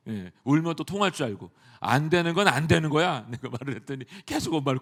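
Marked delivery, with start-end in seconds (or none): 1.8-3.2 louder, insistent retold telling-off; mildly stern grown-up reprimand; firm scolding. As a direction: lay down the rule to a child, loudly. Preacher retells scolding a small child.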